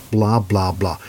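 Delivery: breathy mocking blah blah; dismissive whisper. Real, not acted. Ranting at politicians, a whispered dismissive blah blah. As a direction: brush it off in a scornful whisper.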